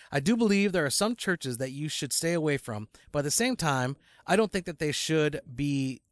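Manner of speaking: measured email read-out; reading aloud. Acted. Cohost reading a listener's email on air, measured. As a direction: read the letter out evenly and formally.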